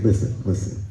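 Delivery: very slow, pause-laden pseudo-scientific explanation; earnest mock lecturer. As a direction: spell it out gravely, phrase by phrase. Acts man giving earnest scientific reason.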